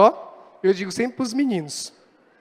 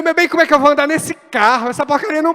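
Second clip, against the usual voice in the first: louder, higher mock fury over the car; retold fuming rant; 4 semitones higher, 5 dB louder than usual. Pastor ranting to his wife about the new car, mock-furious. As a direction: replay the rage, a bit hammed-up. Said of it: "aquele dia eu endemoniei".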